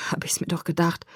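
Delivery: whispered, holding back a chuckle; hushed amusement he can't quite hide; stifling a laugh. Acted. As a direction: murmur it while trying not to laugh. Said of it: "als müsste er ein Lachen unterdrücken".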